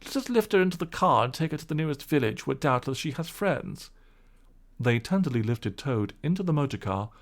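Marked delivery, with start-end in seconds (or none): 0.0-3.9 lightly raised kindly gentleman; a concerned gentleman, mildly voiced; gentleman's voice. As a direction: gentleman fussing over the washerwoman, lightly voiced.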